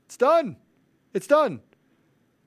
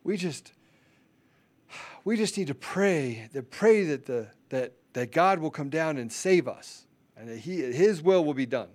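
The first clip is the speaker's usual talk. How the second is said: lightly voiced parody of a praying pastor; halting mock prayer with long pauses; 3 semitones lower than usual. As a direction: imitate a pastor leading a pious prayer. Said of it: "I'm mocking the pastors".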